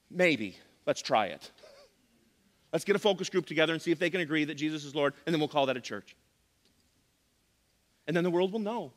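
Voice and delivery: mock church-planner pitch, dry at the end; sarcastic. Preacher mimicking people building a watered-down united church, sarcastic. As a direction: propose it with tongue in cheek. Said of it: "Insert sarcasm".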